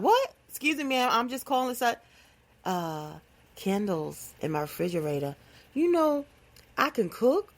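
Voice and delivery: baffled caller trying to keep up; confused caller. Retold or imitated. A confused caller answers her nonsense with a startled What.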